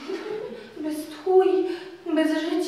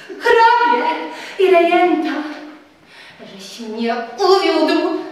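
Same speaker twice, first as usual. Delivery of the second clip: Telimena furious. Acted. Telimena accuses Tadeusz of betrayal, furious. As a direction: lash out, bitter and wounded.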